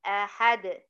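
"أحد" as ahad, no vowel after d; stopped with qalqalah. Shown as a demonstration. Teacher repeating the pause form, "أحد" stopped on d. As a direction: bounce the final d of "أحد". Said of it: "سكنت الحرف الأخير اللي هو الدال".

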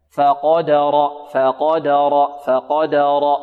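فقدر with clear open fatha, no tilt; careful فقدر. Shown as a demonstration. Teacher repeating فقدر against imala. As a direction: say فقدر without leaning the vowel. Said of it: "نحذر من إمالة فتحتها".

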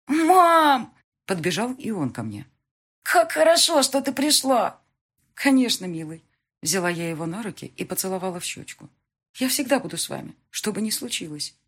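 put-on high, loud child's voice, overjoyed; small boy clinging to his mother; little son. Little son's lines.

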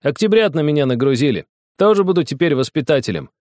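put-on loud boyish boast. A narrator's reading. Boy boasting to grandpa about his charges, loud. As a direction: boast loudly about the new job. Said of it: "громко сказал Огоньков".

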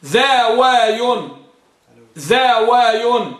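ذاوي stretched very slowly, syllable by syllable; slow pronunciation demo. Shown as a demonstration. Teacher repeats ذاوي slowly so students get it. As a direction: drag ذاوي out for the class. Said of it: "ذاوي على وزن فعل".

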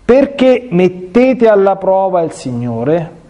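slow stern rebuke, "mettete alla prova" drawn out; Moses, slowly and sternly, questioning the grumbling people; Moses rebuking, slow. Acted. Priest reading Moses' rebuke to the people, slow and stern. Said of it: "Mosè disse loro".

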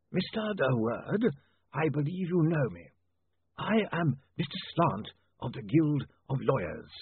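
very slow, high, drawn-out formal voice; zombie lawyer. Acted. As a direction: stretch each word with chilly formality. Zombie lawyer introduces himself.

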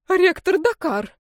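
shout. Acted. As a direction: cry out to the rector. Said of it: "закричала Ирма Кармировна".

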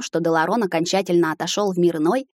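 plain reading voice

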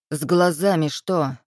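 ordinary delivery, nothing marked

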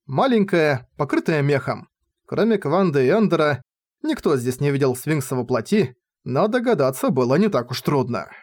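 plain reading voice

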